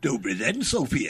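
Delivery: put-on Slovak accent, low and relaxed. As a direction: greet her in a Slovak accent. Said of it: "that's my Slovak voice".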